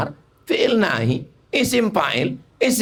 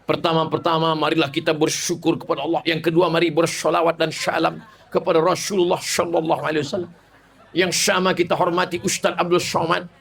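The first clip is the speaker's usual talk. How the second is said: mock lisping shin speaker; 3 semitones lower than usual. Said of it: "lalu semua pakai shin".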